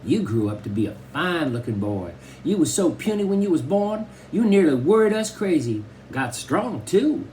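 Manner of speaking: put-on high old Southern grandma voice; Grandma Sands. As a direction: fuss over the grandson like a tiny old granny.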